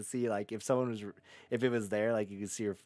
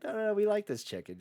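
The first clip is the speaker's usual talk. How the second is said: high mock classmates chorus; 9 semitones higher than usual. Everyone voiced, high.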